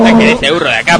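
angry order. Acted. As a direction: shout to throw the donkey out. Técnico echa al burro. (orden enojada, aguda y fuerte)

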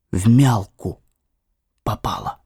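plain reading voice

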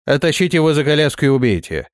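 barked raider order, quick; commanding. Acted. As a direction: give the kill order fast. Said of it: "скомандовал рейдер".

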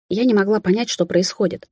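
ordinary delivery

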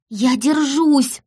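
high, drawn-out call; distant child's cry. A narrator's reading. Daughter answering mother in the storm, high drawn-out cry. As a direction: call slowly as if through the wind. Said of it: "еле расслышала я".

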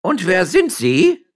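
high, loud, slow call from above. Acted. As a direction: shout the question down. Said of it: "ertönte es wieder von oben". (Amme ruft laut von oben herab)

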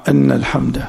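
أن opened with an "a" vowel; a-vowel on the hamza of أن; fatha on أن. Shown as a demonstration. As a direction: say أن as "anna", not "inna". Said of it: "الفتح رواية العامة".

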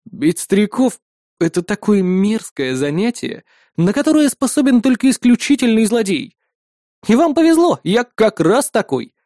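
unhurried mock-villain menace; cold villain line. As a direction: savour it like a self-proud villain. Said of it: "холодно произнёс я".

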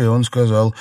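usual speaking voice

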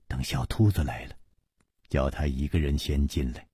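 very quiet, pitched well down; low voice. A narrator's reading. Chu Liuxiang quietly arranging for a boy to come in, low voice. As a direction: keep it down, a hushed instruction. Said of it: "楚留香低声说".

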